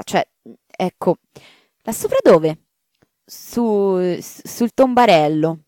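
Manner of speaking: the maid afraid to tell the marchioness; hesitant maid. Acted. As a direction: stumble over how to say it.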